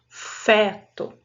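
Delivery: "Feto" with an open eh; open vowel. Shown as a demonstration. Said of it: "com o som aberto".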